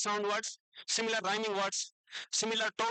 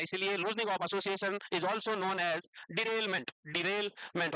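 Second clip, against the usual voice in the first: slow, spelled-out dictation pace; teacher dictating term; much slower than usual. Shown as a demonstration. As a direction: dictate each word slowly for notes. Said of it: "teacher dictating slowly".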